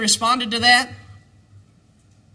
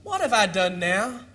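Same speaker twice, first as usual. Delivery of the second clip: softer, sulky little-brother whine; hurt kid brother shrugging it off, lightly voiced; younger brother's sulky protest; 3 semitones lower, 4 dB quieter than usual. David answering his angry older brother, softly sulky. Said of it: "I can see my brother saying this".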